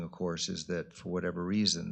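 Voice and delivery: normal talking voice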